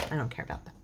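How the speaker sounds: breathy whispered aside, no voice. Real, not acted. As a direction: whisper it to yourself, dismissive. Aside while crafting.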